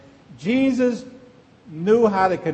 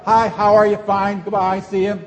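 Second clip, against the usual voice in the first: quick, chirpy greeting, louder at the start; breezy brush-off; 2 semitones higher, 4 dB louder than usual. Retold or imitated. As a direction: toss off a hurried hello-goodbye. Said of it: "we're kinda".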